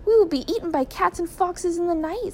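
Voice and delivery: put-on high-pitched tearful little boy; mild wail of a frightened child. A narrator's reading. Young son fretting about cats and foxes at night, high and tearful. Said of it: "the boys began to cry".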